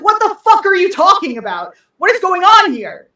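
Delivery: high, loud disbelieving cry; baffled outburst. Retold or imitated. Watching the absurd ad, high and loud in disbelief. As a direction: exclaim in total confusion. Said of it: "And I'm like".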